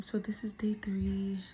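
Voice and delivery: breathy whispered repeat; whispering. Real, not acted. Repeats the intro, softer now.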